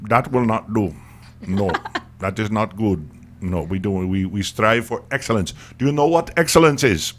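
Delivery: lightly voiced Indian dad accent; a hint of a stern Indian father. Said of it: "My Indian accent is horrible".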